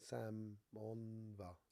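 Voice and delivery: stretched syllable by syllable; sounding out. Shown as a demonstration. Streamer puzzling over a viewer's name, sounding it out. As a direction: sound out "Samonva" very slowly. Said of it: "What does that mean?".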